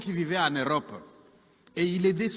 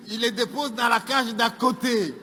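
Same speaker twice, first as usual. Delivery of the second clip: higher, raised punchline delivery; emphatic repeat; 4 semitones higher, 4 dB louder than usual. Acted. Storyteller repeats the punchline after laughter, emphatic. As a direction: announce it boldly to the crowd.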